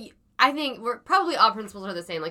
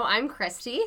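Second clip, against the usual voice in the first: sick voice; 3 semitones higher, slower than usual. Real, not acted. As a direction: talk through a head cold. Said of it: "they knew that from your sick voice".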